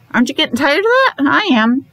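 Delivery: playfully fed-up aside; mock exasperation. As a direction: tease the kids about the repetition.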